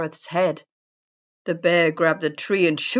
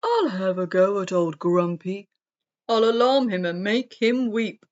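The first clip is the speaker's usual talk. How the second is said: hedgehog voice; 3 dB louder than usual. A narrator's reading. Hedgehog character boasts in story.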